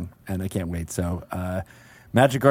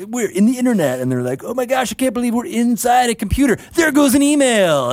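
theatrical gushing; 11 semitones higher than usual. Retold or imitated. Mocking actors in an internet musical.

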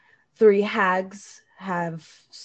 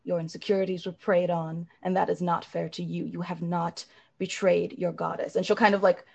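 reassuring. Acted. Azara consoling the elf, lightly voiced and tender.

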